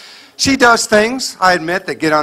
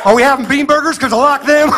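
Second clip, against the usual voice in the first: meek husband giving in; 9 semitones higher than usual. Pretend.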